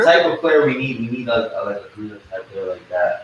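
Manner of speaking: distant, off-mic sound; speaking too far from the microphone. Real, not acted. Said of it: "you sound like you're far from the mic".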